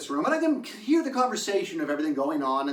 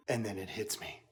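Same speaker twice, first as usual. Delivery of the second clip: dramatic low; 10 semitones lower, 11 dB quieter than usual. Real, not acted. Dramatic storytelling pause.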